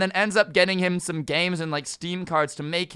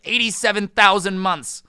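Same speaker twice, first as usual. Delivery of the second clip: doting mom; 6 semitones higher, 6 dB louder than usual. Retold or imitated. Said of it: "she says, like".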